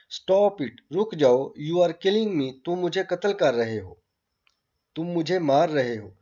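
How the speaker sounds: hammed-up cry of a terrified girl; mock hysterical shriek. Girl cries out at the doctor, a mild mock shriek. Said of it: "then she shrieked terrifyingly".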